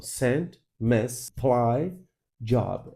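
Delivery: "sent, mess, apply, job" as separate stressed beats; isolated strong syllables. Shown as a demonstration. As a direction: give each of "sent", "mess", "apply", "job" its own pulse. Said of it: "Essas são as sílabas fortes".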